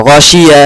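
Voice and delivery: গাসিয়া slow and even, the vowel kept short; normal unstretched গাসিয়া. Shown as a demonstration. Teacher modeling গাসিয়া for the student, slow and careful.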